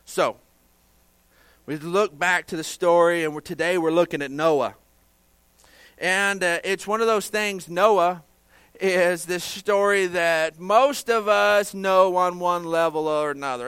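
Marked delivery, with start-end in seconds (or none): 1.7-13.7 raised, louder preaching voice. Acted. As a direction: preach it out to the congregation.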